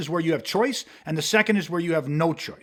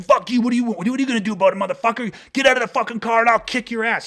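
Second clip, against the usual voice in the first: higher, hammed-up aggressive threat; mock angry driver; 4 semitones higher, faster than usual. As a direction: play the rude guy squaring up. Rude driver yelling, parking spot.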